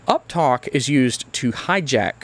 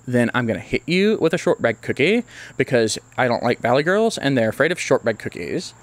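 ordinary talk

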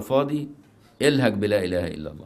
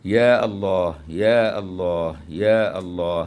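louder, slow يا الله, drawn out; invoking three times; 4 dB louder, much slower than usual. Shown as a demonstration. Teacher demonstrating the threefold invocation, loud and slow. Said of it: "هكذا يكرره ثلاثا".

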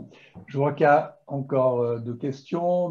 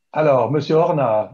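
calling out louder; to someone hard of hearing; 6 dB louder than usual. Real, not acted. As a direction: raise the voice to reach someone. Calling a caller who may not hear.

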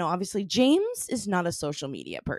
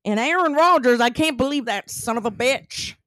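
exaggerated drawling accent, higher and louder; hammed-up Wisconsin sports fan accent, pitched up; put-on accent; 6 semitones higher, 4 dB louder than usual. Podcast host mocking a Wisconsin draft broadcast, hammed-up accent. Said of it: "the thing about my accents".

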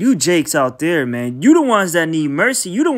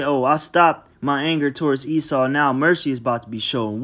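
mock quotation; 6 semitones lower than usual. Mocking a scripture that does not exist.

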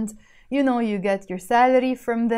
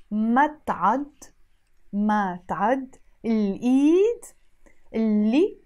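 careful, slower Arabic phrase. Shown as a demonstration. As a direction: spell it out slowly, word by word. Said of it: "Now let me say it slower".

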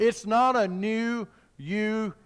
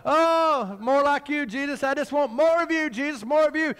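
higher-pitched imitation of a worshipper; mock devotional plea; 5 semitones higher than usual. Preacher mimicking what the church says to Jesus, mock devotional plea. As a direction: plead like an eager churchgoer.

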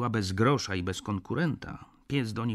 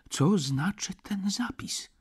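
slow, anxious whispered question, pitched higher; uneasy whisper; 10 semitones higher, slower than usual. A narrator's reading. Narrator asking the doctor about the will, uneasy whisper. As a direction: whisper it, a little alarmed. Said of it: "Spytałem trochę nawet zaniepokojony".

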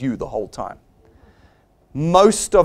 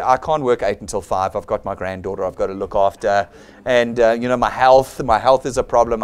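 lightly voiced reluctant job seeker, lower; mock excuse-making; 5 semitones lower than usual. Job seeker turns down the admin job, mock apologetic excuses.

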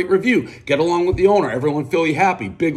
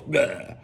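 mock retch; 6 dB quieter than usual. Reviewer grossed out by his two rivals, mock retching. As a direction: blurt a pretend puking noise. Pretends to puke at the pair.

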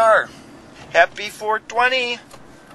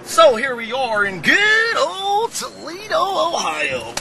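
excited shout; 5 semitones higher than usual. Real, not acted. Vlog intro, shouted greeting.

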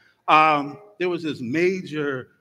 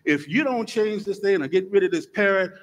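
indignant customer; 4 dB louder than usual. Acted. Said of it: "She said".

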